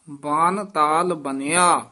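"ਬਨ" said softly in "ਬਨ ਤਾਲ ਬਣਿਆ"; gentle, loose "ਬਨ"; soft pronunciation. Shown as a demonstration. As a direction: keep "ਬਨ" light, unstressed. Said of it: "ਬਨ ਪੋਲਾ ਹੀ ਬੋਲਣਾ ਹੈ".

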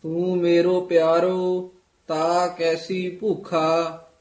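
sustained, chant-like Punjabi scripture reading; scripture recitation. Shown as a demonstration. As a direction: recite phrase by phrase, pausing after each.

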